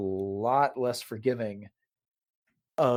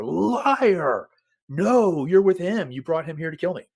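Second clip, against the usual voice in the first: louder, higher mock yell, easing off; imitated yell; 5 semitones higher, 5 dB louder, slower than usual. Anakin accusing her of betrayal, imitated yell. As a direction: act out his accusing yell, biggest on the first words. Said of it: "the way he just yells at her".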